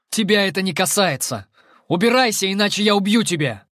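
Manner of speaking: furious threat. Acted. The narrator furiously threatens the creature. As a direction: threaten to kill.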